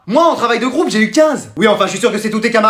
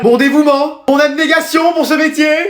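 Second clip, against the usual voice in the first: swelling, higher, theatrical pride; overwhelmed emotion; 4 semitones higher than usual. Acted. Teacher marvels at top marks, overcome. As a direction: build it like a tearful tribute.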